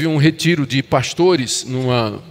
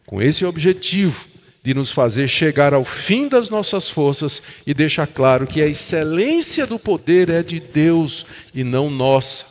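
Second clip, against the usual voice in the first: ordinary talk, nothing marked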